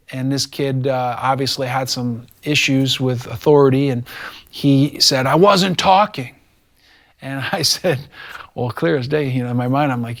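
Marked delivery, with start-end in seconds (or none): 5.3-6.4 higher, slow mock protest; retold indignant denial; imitated defiant denial. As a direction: play a kid protesting, drawn out. Retelling a kid's defiant denial.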